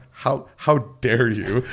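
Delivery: slow, drawn-out indignation; hammed-up wounded ego, stretched out; mock raging. Young pianist outraged at being stopped, mock raging. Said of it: "And I'm raging".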